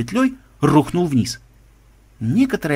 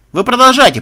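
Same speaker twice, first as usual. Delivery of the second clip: high, loud urging; raised-voice go-ahead; calling out; 11 semitones higher, 7 dB louder than usual. Acted. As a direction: call it down to the crew. Calling down to the crew.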